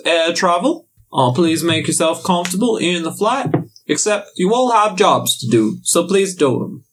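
captain's intercom announcement; mock airline pilot over the PA; pilot cockpit headset. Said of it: "this is your captain speaking".

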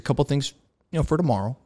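lightly voiced instructor easing into advice; gentle, casual debriefer. Instructor gives tips for tomorrow, gentle and casual. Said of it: "real gentle, real casual".

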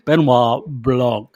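"Benoit Blanc" spoken slowly, each syllable placed: ben-WAR BLONK; re-say "Benoit Blanc" deliberately after the slip; careful retake. Real, not acted.

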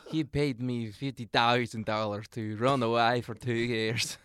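slow, loud mock-foreign accent; hammed-up accent from no known country; unplaceable foreign accent. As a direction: exaggerate a mystery accent, dragging each word. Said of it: "you would say it in the accent".

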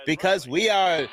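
put-on old radio announcer. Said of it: "fucking shitty transatlantic accent".

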